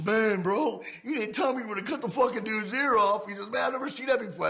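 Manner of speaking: high, loud stunned complaint; retold shock. The biker buddy in the van complaining to him, shaken and high. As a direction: play the rattled buddy.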